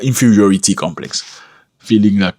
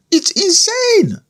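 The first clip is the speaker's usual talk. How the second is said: whispered aside; slower than usual. Real, not acted.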